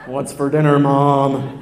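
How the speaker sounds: loud, very low, droning voice; house-shaking bass child. Pretend. Child coming home from school to Mom, booming bass. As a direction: boom it out deep and loud. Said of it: "our children would shake the house".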